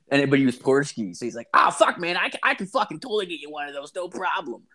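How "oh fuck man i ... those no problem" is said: high, puppet-frog voice imitating a friend; Kermit-like voice. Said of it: "this really Kermity voice".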